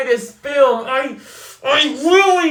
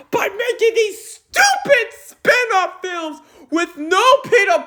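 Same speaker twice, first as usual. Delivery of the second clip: high, shouted complaint with breaking laughs; yelling rant; 5 semitones higher than usual. Real, not acted. Fan yelling about Spider-Man spin-offs, high and loud. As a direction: rant at full volume, pitch way up. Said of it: "did not hear me screaming out loud or yelling".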